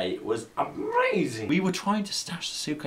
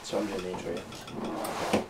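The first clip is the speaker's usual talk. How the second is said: slow presenter voice; 4 semitones lower, 4 dB quieter, slower than usual. Acted. Presenter starts intro.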